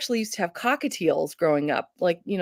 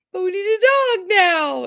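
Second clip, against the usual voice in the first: mock pleading whine; 12 semitones higher, 4 dB louder than usual. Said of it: "we were like".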